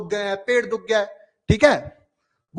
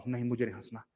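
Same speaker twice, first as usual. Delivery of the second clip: refusing to laugh; 10 semitones lower, 13 dB quieter, faster than usual. Acted. Teacher acts refusing to laugh.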